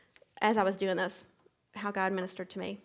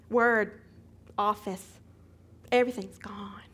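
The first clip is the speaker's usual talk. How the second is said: hushed, unvoiced whisper; stunned whisper; whispered despair; 5 dB louder, slower than usual. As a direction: breathe it out like a loss. Despair at lost files.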